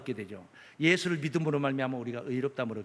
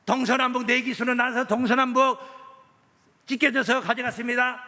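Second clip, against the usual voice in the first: loud, insistent pulpit delivery; forceful preaching; 11 semitones higher, 7 dB louder than usual. Acted. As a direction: drive each phrase home to the congregation.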